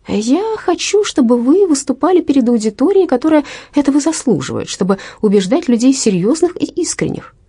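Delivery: a mild tremble held under earnest urging; trembling voice. A narrator's reading. Olive pleading with Verina, a touch of trembling voice. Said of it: "слышала, как дрожит её голос".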